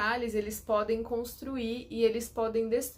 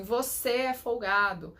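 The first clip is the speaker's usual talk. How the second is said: mock accusation; slower than usual. Shown as a demonstration. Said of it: "chega pra você e fala assim".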